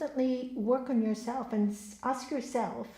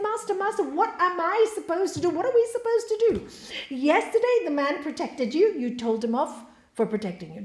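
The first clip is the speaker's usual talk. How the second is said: high, loud, bewildered pleading; exasperated disciple begging for an explanation; really confused; 6 semitones higher, 5 dB louder than usual. Acted. Third disciple asking his master what to do, confused. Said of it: "he was really confused".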